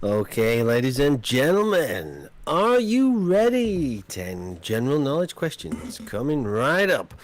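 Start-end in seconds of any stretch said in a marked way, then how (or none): 2.5-4.0 hyped-up host call. Acted. Quizmaster hyping chat.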